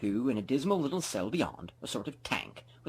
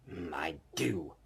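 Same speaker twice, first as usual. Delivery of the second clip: grumbling; 5 semitones lower, 5 dB quieter, slower than usual. Acted. Scrooge grumbling answer.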